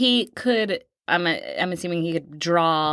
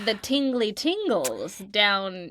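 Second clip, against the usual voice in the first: teasing innuendo. Acted.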